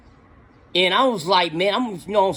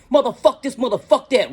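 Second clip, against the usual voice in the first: mock angry cussing; 6 semitones higher than usual. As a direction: spit out the curses like he did. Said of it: "Nothing but cuss word".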